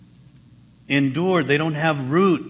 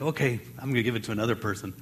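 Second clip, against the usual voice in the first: quick resolve; 5 semitones lower, 8 dB quieter, much faster than usual. Retold or imitated. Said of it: "and like".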